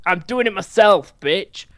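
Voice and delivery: loud, high mock rage at the game boss; hammed-up angry shout; mock angry outburst. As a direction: yell it at the boss, half joking. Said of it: "Have you got anger problems?".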